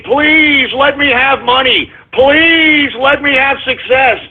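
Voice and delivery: slow singsong mock plea; mock begging. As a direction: imitate a whiny beggar, stretching each please. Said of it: "and begging".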